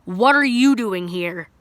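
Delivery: loud, slow, confronting; neighbor's mom confronting the kid in her driveway; retold stern demand. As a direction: bark it out like an angry mom. Angry mom confronts him.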